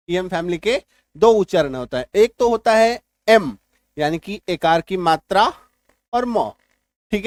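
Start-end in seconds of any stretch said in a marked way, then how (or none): 2.1-3.6 एम said slowly as "em", with the e vowel and m; drawn-out एम with a clear e sound; pronunciation demo. Shown as a demonstration. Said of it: "ईएम family के दो उच्चारण होते हैं". (एम को धीरे से "एम" बोलिए)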